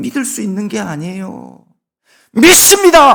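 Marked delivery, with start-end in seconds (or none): 2.3-3.2 very high-pitched, very loud shouted cry. Sermon example of declaring belief by shouting: shouted. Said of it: "이렇게 외친다고".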